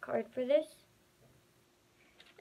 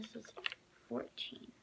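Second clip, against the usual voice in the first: whispering; 9 dB quieter than usual. Real, not acted. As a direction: keep whispering the price. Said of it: "you have to whisper".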